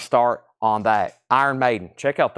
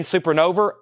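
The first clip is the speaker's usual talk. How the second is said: Tennessee accent, "Supernova" ending in -er; Southern "Supernova" with an r on the end; 2 semitones higher than usual. Real, not acted. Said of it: "my Tennessee accent just came out".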